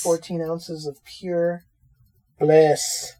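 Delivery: speaking into a coffee mug; hollow, mouth in the mug. Real, not acted. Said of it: "I'm speaking into the mug".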